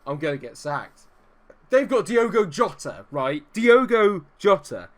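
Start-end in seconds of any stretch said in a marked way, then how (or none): 1.7-4.9 loud, higher exasperated rant; exasperated outburst. Real, not acted. Gamer ranting at his failing team, exasperated and loud. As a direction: vent the frustration loud and high. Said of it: "I'm getting really wound up".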